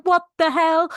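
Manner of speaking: jolted disbelief; shocked outburst. Retold or imitated. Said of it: "And Rolf's like".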